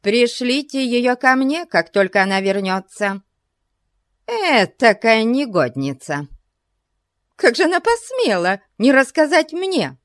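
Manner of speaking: put-on high, huffy old lady; indignant exclaiming. A narrator's reading. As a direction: demand it, outraged. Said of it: "воскликнула мисс Кроули". (возмущённо восклицая)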